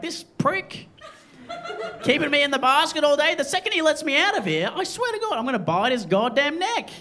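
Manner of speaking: hammed-up rant of a trapped, furious snake; angry snake. Snake fuming in basket.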